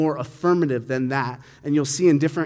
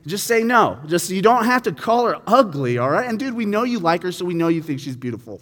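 louder, higher teasing friend; kid teasing; 3 semitones higher, 4 dB louder than usual. Retold or imitated. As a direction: poke fun at the embarrassed buddy. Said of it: "one kid tells another kid".

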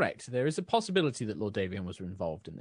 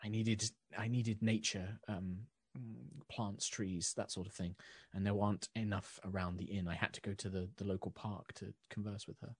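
softer, confiding tone meant for one listener; lowered voice; 8 dB quieter than usual. Acted. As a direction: lean in and keep it soft. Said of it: "she lowers her voice".

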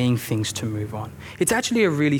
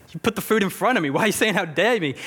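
higher, puzzled pushback; baffled protest; 5 semitones higher than usual. Retold or imitated. Newcomer protesting to the scolding church group, baffled. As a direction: act confused at the scolding. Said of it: "I'll be like".

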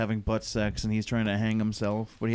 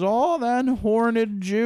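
mock Alan; 9 semitones higher, 5 dB louder, slower than usual. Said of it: "he just goes".

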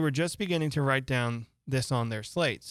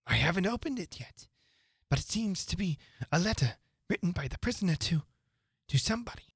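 higher voice, halting before the end; White Rabbit, hesitant; 5 semitones higher than usual. A narrator's reading. White Rabbit explains the unopened letter, hesitant. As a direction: pause and feel for the words, high-voiced.

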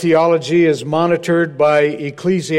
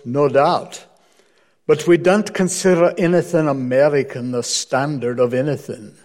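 mock Scottish minister; hammed-up Scottish accent; horrible Scottish accent. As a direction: deliver the put-down in imitated Scots. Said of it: "this is my horrible Scottish accent".

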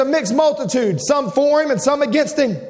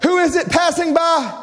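raised, sharp cry from the crowd; pitched-up blind beggar's call; 5 semitones higher than usual. Retold or imitated. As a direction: call out higher, questioning sharply. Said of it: "there comes a sharp voice".

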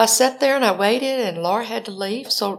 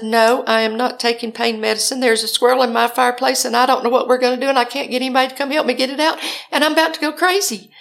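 louder, rapid frantic run-on; flustered rant; 4 semitones higher, 4 dB louder, faster than usual. Retold or imitated. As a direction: pour out the whole problem, pitch climbing to the end. Flustered rant to her son.

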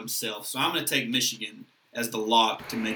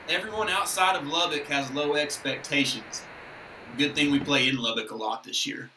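nasally pirate voice, lightly done; nasally Mike Leach voice. Retold or imitated. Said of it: "imagine this in a nasally pirate voice".

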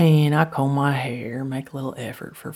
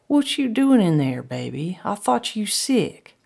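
high, raised-voice questioning; puzzled questions pitched up high; calling questioningly; 6 semitones higher, 5 dB louder than usual. Acted. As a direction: ask loudly through a door. Questioning Frank through the door.

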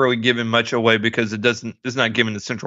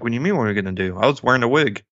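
deadpan; much faster than usual. Retold or imitated. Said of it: "deadpan about it".

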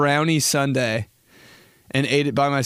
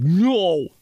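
mom's no; 5 semitones higher, 4 dB louder than usual. Retold or imitated. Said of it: "my mom was like".

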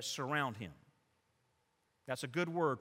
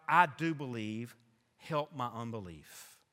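pleading cry; 4 semitones lower than usual. Acted. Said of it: "father of the boy cried out".

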